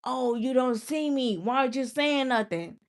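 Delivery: mock clingy fan whining; mocking whiny viewer. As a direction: imitate a needy viewer begging for attention. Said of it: "instead of just saying".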